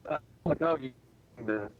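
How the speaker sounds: choppy broken-up audio; cutting in and out; bad connection. Real, not acted. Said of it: "you're breaking up on us".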